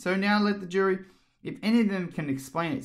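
Alice voice. A narrator's reading. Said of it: "said Alice".

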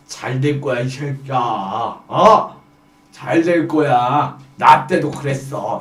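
low, slow boss voice; patronizing senior. Acted. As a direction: reassure the rookie in a low, drawn-out voice. Senior patting the new employee's shoulder.

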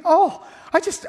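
mock swoon. Mocking swooning believer.

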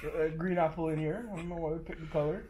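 lightly put-on Caribbean accent. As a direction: tour guide in a mild Caribbean lilt. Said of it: "Can you do it in the accent?".

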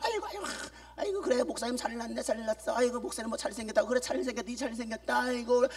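빈정대며 투덜거리는 신자 흉내; 부드럽게 비꼬듯 중얼거리기; mock grumbling. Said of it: "의심하고 원망하고 불평하기를". (목사를 비꼬며 투덜대는 신자 흉내)

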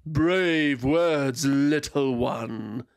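slow, amused purr; purring dragon. Acted. Dragon purring mockingly at the small draconid. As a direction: toy with the little one. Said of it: "the dragon purred".

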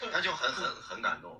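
laughing. Real, not acted. Still laughing about the exam while telling the listeners, laughing. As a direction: laugh while you get the words out.

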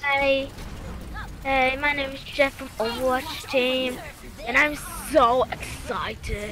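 Jeff impression. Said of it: "he doesn't sound like that either".

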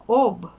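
Об very loud, with a voiced final B; loud demo of Об ending in B, never P; ringing voiced ending. Shown as a demonstration. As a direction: belt out Об, letting the Б ring. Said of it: "Вимовляй дзвінко".

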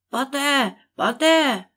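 yelling. Acted. Rabbit yelling for his servant, loud. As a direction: bellow the name angrily. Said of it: "волав кролик".

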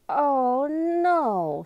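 high, loud cry of dismay. A narrator's reading. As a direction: exclaim in alarm, pitch shooting up. Girl realises she is late.

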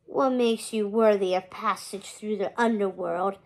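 lightly voiced low, dusty skeleton ferryman; deep musty skeleton. Skeleton ferryman questioning Hector in a lightly deepened, dusty voice. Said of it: "in a deep, musty voice".

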